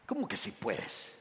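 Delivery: low, soft mock disbelief; quiet Jesus. Jesus answering the doubting father: low, soft disbelief. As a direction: let it drop low and quiet in gentle rebuke. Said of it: "Como Jesús diciendo".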